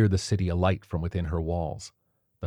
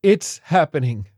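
higher, louder cry; panicked cry; 9 semitones higher, 7 dB louder than usual. A narrator's reading. Violinist crying out as bombs fall. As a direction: cry out in alarm. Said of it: "cried the violinist".

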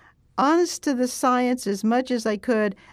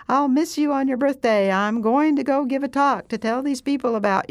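cheerful video greeting for Kanzi; sweet talk to Kanzi; 2 semitones higher than usual. Retold or imitated. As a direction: coo it like a birthday message to a beloved pet. Speaking to Kanzi on camera.

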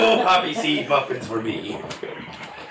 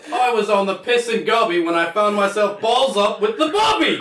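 mock Cockney, pitched up and laughing; Cockney accent; 8 semitones higher than usual. Reading a Cockney card aloud, mock Cockney. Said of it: "got all of the Cockney cards".

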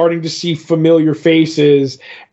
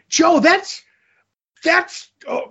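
much higher put-on voice, slowing, breaking into a laugh; goofy counter, chuckling; 9 semitones higher, slower than usual. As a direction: fumble the count then laugh at it. Mock counting continues, laughing.

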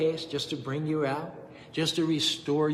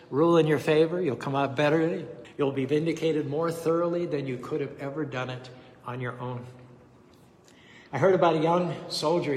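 usual speaking voice

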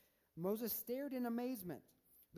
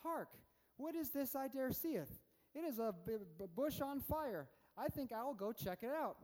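mock old-English Moses, pitched up; hammy stage actor; 4 semitones higher than usual. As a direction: ham it up in mock King James English. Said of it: "He's like".

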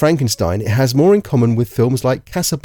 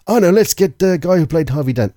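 higher-pitched exec brainstorming; movie exec; 4 semitones higher than usual. Acted. Exec suggesting an actor in a meeting, eager. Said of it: "sitting in a meeting going".

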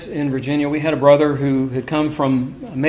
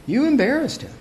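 much higher, imitating the complainers; high, put-on accusing voice; high-pitched mock reproach; 10 semitones higher, 3 dB quieter than usual. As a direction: mimic a scandalized complaint up high. Retold reproach, repeated higher.

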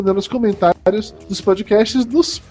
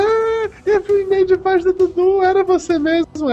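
high fan voice; 12 semitones higher than usual. Retold or imitated. Quoting a fan listener.

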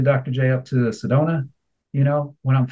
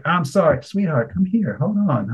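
teller's voice; 4 semitones higher than usual. Retold or imitated. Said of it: "the teller will be like".

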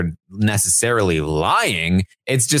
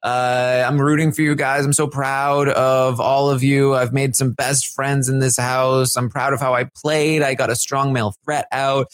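imitated tearful speech; 5 semitones higher than usual. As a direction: lightly act out a crying goodbye. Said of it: "she starts crying".

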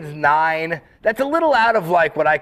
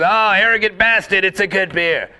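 higher, lightly put-on Australian voice; imitated Australian; 3 semitones higher than usual. Australian drinker naming his beer, lightly imitated Australian accent. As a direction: mimic an Australian bloke at a bar. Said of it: "Australian fellow stands up to the bar".

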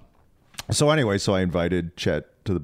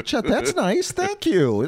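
high mock politeness; much slower than usual. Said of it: "I'm like".

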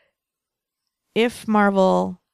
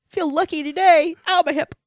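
put-on old rocker voice; 9 semitones higher than usual. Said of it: "Huey Lewis voice continued".

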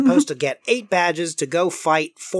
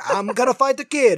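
higher-pitched cartoon mob boss; Giovanni; 7 semitones higher than usual. Evil brother declaring a fight, mobster voice. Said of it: "Giovanni's like".

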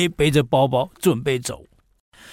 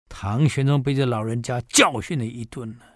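ordinary talk, nothing marked

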